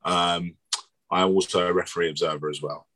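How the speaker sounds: a bit hoarse and croaky. Real, not acted. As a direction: speak through a croaky throat. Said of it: "I'm a bit croaky".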